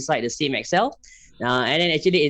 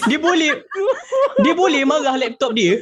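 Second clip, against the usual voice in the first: laughing; 13 semitones higher than usual. Real, not acted. Joking about angry colleague.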